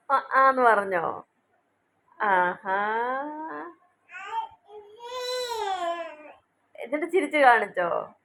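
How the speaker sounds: put-on sing-song questions to a babbling baby; baby talk. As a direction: coo along as if following a baby's story.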